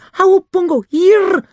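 high, loud call; shouting the name. Acted. Nobby yells at Pongo to stop attacking. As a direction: yell to stop the ape. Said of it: "schreeuwde Nobby".

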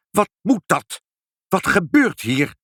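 high-pitched indignant yell; angry shouting. A narrator's reading. Pinkepank yelling at the noisy night visitors, high indignant shout. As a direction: demand it loudly in a high voice. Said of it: "schreeuwde meneer Pinkepank".

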